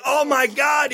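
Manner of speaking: hammed-up excited cry; mock ecstatic shout. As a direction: blurt it out in over-the-top ecstasy. Retelling his own climax.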